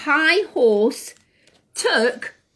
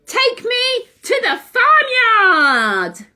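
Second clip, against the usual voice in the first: bossy order; 11 semitones higher, 5 dB louder, slower than usual. Acted. Owl orders the pig.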